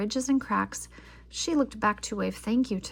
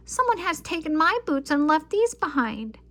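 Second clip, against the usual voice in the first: put-on higher, louder childish wail; 6 semitones higher, 5 dB louder than usual. A narrator's reading. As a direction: wail it like a sulky cub. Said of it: "she wailed".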